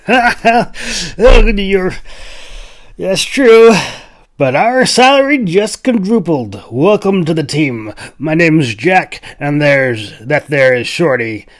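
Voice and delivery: high, loud, laughing welcome; laughing hunter. A narrator's reading. Jack welcoming the Clove, laughing and loud. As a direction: chuckle through it, pleased with the money. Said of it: "Jack declared".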